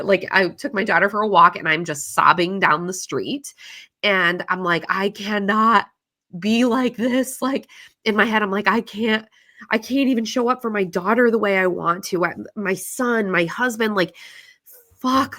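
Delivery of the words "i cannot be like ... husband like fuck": distressed inner voice. Retold or imitated. Retold despair in her head.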